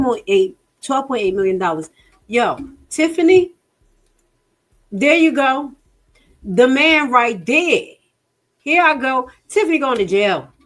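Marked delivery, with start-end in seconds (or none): 2.3-10.5 much higher and louder, calling out; excited call-out. Real, not acted. Vlogger calling out Tiffany on camera, loud high hype. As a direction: hype it up like you caught her red-handed.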